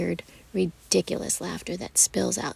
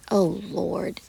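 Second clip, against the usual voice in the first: exasperated groan; 3 dB louder than usual. Acted. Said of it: "she groans".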